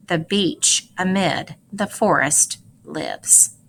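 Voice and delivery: measured poem read aloud to a class; expressive read-aloud of a poem; poetry reading. Acted. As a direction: read it like a poem, pausing on the images. Teacher reads poem aloud.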